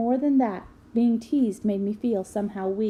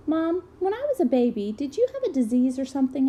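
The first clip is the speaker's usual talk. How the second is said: put-on lightly raised, childlike question; young child asking; 4 semitones higher than usual. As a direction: ask it like a curious little boy. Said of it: "I asked".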